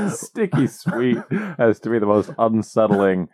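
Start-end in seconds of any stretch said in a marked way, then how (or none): 0.1-1.2 slow mimicked sexy voice; imitated sensual talk. Co-host mocks the unsettling talk, imitated sensual voice. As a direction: echo it slowly, teasing the sultry delivery. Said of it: "sensual talk you could have".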